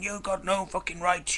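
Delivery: mock-shrill stalker imitation; mimicking stalker. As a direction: squeak out her indignant retort. Mimicking the stalker's angry retort.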